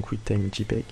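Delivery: QuickTime J peg said with an English accent. Shown as a demonstration. Tutor reading the export format aloud, in a light English accent. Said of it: "Excusez mon accent anglais".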